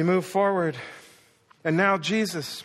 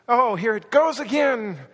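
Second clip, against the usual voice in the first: agonized dad; 5 semitones higher, 5 dB louder than usual. Acted. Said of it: "And in your agony".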